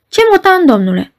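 high furious snap at him; girl shouts at the clerk, furious; furious yell. A narrator's reading. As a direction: spit it out in a fury. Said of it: "strigă fata în culmea furiei".

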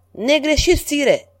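high, eager courtier's cry; eager exclamation. A narrator's reading. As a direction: jump in to agree, high and keen. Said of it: "exclamă contele de C".

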